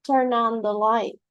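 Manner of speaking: teacher stressing the particle. Shown as a demonstration. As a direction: Turn on the light, ON stressed. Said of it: "this is a very clear example".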